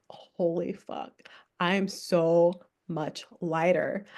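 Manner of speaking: slow, hushed whisper of relief; awed whisper. Retold or imitated. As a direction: breathe it out in amazed relief. Acts the relieved realisation.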